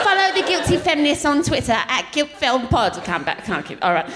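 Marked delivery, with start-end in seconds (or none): 0.0-2.9 lightly imitated British nanny accent; mock nanny accent for a plug; Super Nanny. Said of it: "Okay, do Super Nanny".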